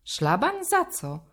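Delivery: high, rising disbelief; can't believe what he just heard; surprised. A narrator's reading. Friend reacting to Szymek's grounding, high and astonished.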